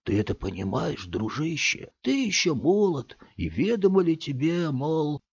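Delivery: whiny lament. A narrator's reading. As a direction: wallow in loneliness. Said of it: "плаксивым голосом".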